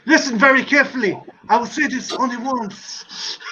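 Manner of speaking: imitating a comic secret-agent catchphrase, slowing down; sitcom catchphrase. Quoting 'Allo 'Allo catchphrase.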